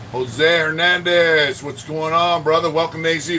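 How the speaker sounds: hearty shout-out. Real, not acted. Livestream shout-out to a viewer.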